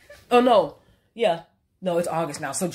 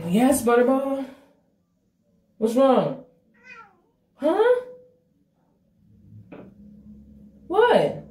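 much higher, calling to the cat; high pet voice; 9 semitones higher, 5 dB louder, much slower than usual. Real, not acted. Asking her cat what is wrong, high.

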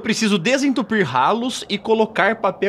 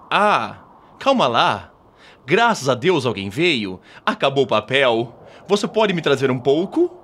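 voz de homem no banheiro; 5 semitones lower than usual. Acted. Pessoa presa no banheiro pede papel.

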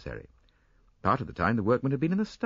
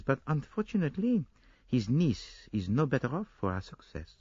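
higher detective voice, conceding with a sigh; rueful Poirot; 5 semitones higher than usual. Acted. Poirot conceding to Hastings, higher rueful detective voice. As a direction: admit defeat with dignity.

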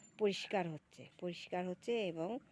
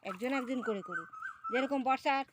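calling out; 4 semitones higher, 8 dB louder than usual. Real, not acted. Calling out, directing the ducks.

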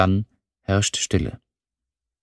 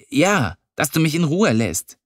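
higher, tart comeback; curt retort; 7 semitones higher than usual. Acted. Lilly, fed up with him, tells him to leave her alone. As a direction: shut him down.

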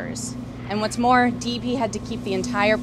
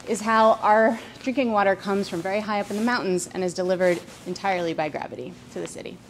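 breathless after climbing stairs; out of breath. Real, not acted. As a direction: talk while catching your breath. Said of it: "and I'm out of breath".

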